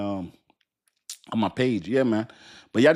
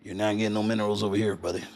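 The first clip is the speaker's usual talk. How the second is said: low, hushed hammed-up Texan; put-on country voice for China; Chinese Texan voice; 3 semitones lower, 4 dB quieter, faster than usual. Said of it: "that's my voice for everything".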